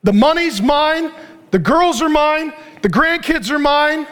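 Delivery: slow, emphatic acted claiming of each thing; hammed-up greedy insistence; murderous possessiveness. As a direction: stake a claim, hitting each mine. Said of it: "Murderous spirit".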